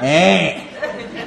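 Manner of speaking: "eh" drawn out as a southern "ay"; southern twang. Shown as a demonstration. Freshman fresh out of a small town, southern twang. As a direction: exaggerate the southern twang on the vowel. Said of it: "Just such a southern twang".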